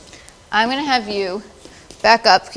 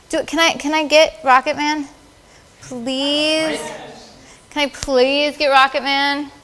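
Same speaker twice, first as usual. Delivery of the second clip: higher-pitched, drawn-out begging; playful pleading; 4 semitones higher, slower than usual. Real, not acted. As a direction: wheedle for a favour, stretching the plea. Begging to photograph Rocket Man.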